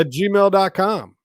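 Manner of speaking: slow dictation. Shown as a demonstration. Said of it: "spelling out email slowly".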